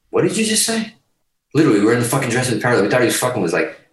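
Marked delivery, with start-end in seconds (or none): 0.1-0.9 stunned disbelief. Retold or imitated. Band stunned by label offer.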